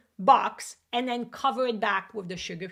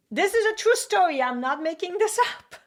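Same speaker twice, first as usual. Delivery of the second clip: emphatic insistence; 8 semitones higher, 5 dB louder than usual. Real, not acted. Insisting story is true.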